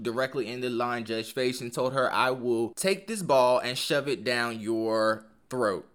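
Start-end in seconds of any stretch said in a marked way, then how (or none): 2.1-5.9 slow, deliberate quoted threat, mildly emphatic; emphatic retold threat. Serena telling the line judge off, retold with measured emphasis. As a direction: retell the threat word by word, slowly, without shouting. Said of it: "she put some more emphasis on it".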